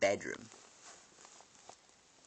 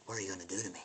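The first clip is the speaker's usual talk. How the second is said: put-on scared kid; 9 dB quieter, much faster than usual. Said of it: "he's like".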